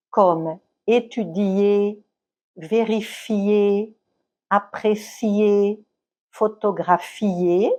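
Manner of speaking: étudier, vérifier, apprécier, photographier said slowly, each leaning on the final ending; slow classroom demo, putting the weight on the last syllable "ier"; stress on the I. Shown as a demonstration. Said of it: "l'accent tonique tombe sur le I". (accent sur le I, diction lente de professeur)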